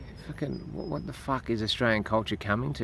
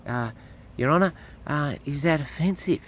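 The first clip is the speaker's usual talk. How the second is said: higher and louder, pressing the judge; retold outburst in court, raised and insistent; loud indignant retort; 6 semitones higher, 6 dB louder than usual. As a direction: demand an answer from the bench. Retells his own words in court.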